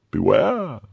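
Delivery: high, drawn-out warning; threatening. A narrator's reading. The captor warns his prisoner, threatening. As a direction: warn with menace. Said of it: "in a threatening accent".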